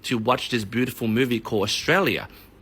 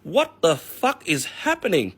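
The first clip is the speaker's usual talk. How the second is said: slow, baffled mock disbelief; shocked newcomer; 5 semitones higher, slower than usual. New residents walking into a packed cinema, baffled. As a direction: drag it out, bewildered.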